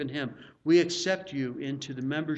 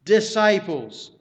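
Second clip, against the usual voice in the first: "disciples" slow, loud and high; stress on disciples; 5 semitones higher, 10 dB louder, slower than usual. Real, not acted. Preacher singles out who Jesus addresses, heavy stress on "disciples". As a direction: hit "disciples" hard, drawing it out. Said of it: "I emphasize that word disciples".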